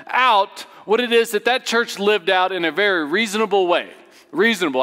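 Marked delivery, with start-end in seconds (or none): 3.1-4.8 "reasonable" stressed and set apart on its repeat; emphasis on reasonable. Real, not acted. Preacher qualifying his church's aim for the congregation, stressing "reasonable". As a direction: lean on the word "reasonable", then repeat it emphatically. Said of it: "I emphasize that word".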